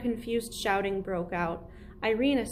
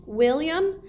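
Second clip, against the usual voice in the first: higher and louder call; 6 semitones higher, 7 dB louder than usual. A narrator's reading. Relative calling to the lawyer over the noise: calling out. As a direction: call the name across the room.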